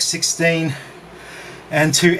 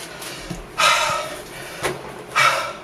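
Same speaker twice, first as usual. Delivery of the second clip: heavy winded exhale; long panting breath; 5 dB quieter than usual. Real, not acted. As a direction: breathe out hard after climbing. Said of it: "catching my breath".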